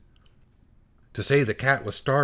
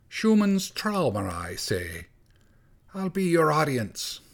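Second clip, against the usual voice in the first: forced grin; 5 semitones higher than usual. Acted. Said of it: "he forced a grin and said".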